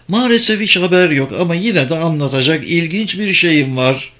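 lightly voiced scheming wife. Wife teasing her husband with news, lightly voiced.

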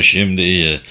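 "Şimdi iyi" said firmly, each word weighted; emphatic. A narrator's reading. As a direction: lean deliberately on "Şimdi iyi". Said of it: "Sonra üzerine basa basa". ("Şimdi iyi" sözlerinin üzerine basa basa)

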